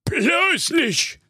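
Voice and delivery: very high, sharp refusal; hissed. A narrator's reading. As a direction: hiss it through narrow lips. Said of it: "zischte da der knallhart knauserige Knut".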